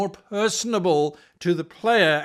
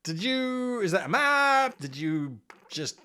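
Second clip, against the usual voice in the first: sneering map critic. Retold or imitated. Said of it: "look at the map and go".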